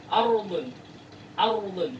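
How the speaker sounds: "Ardun" with a rolled r; Arabic ra pronunciation. Shown as a demonstration. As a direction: clear tapped r. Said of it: "ini cukup jelas".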